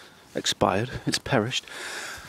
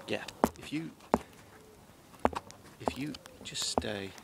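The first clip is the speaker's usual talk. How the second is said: real hushed whisper, much softer; soft whisper to a wild creature; 13 dB quieter than usual. Real, not acted. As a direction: coax the animal to stay without scaring it. Whispering to animal in woods.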